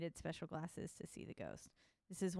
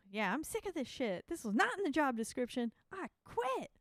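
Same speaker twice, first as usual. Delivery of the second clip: exasperated quitting; 8 semitones higher, 4 dB louder than usual. Retold or imitated. Voicing Maggie quitting.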